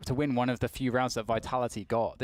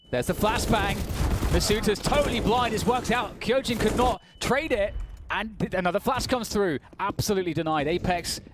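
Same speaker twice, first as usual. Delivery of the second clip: raised, punchy match commentary; excited play-by-play; 6 semitones higher than usual. Real, not acted. Caster calls a flashbang play, excited play-by-play. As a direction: call the action as it breaks.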